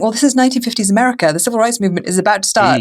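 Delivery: rattled off fast like a passing thought; quick inner thought. Retold or imitated. Viewer thinking it over, quick and wry. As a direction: rush through it as a wry aside. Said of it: "And you just think".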